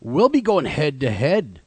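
slow, low mock threat; menacing. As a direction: play a mock rival's threat. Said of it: "I like your threatening voice".

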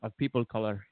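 attempted Latino accent. Shown as a demonstration. Co-host asks for a Latino accent, badly faked Latino accent. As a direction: try a Latino accent and miss. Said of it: "What does your Latino accent sound like?".

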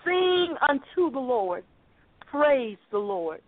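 slow, measured proclamation of praise; preacher's slow, triumphant quote. Retold or imitated. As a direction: proclaim it slowly, drawing out each phrase. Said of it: "Jeremiah triumphantly proclaimed".

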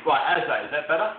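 echoey, far from the mic; talking from inside a tunnel; echoing tunnel. Real, not acted. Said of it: "it sounds like you're in a tunnel".

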